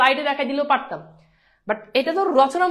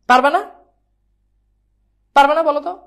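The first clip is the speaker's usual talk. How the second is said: calling out; 8 dB louder than usual. Real, not acted. Teacher calls to class.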